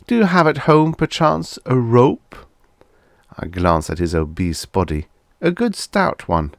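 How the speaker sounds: fish for the answer; sly boss voice. A narrator's reading. Boss asks sly questions.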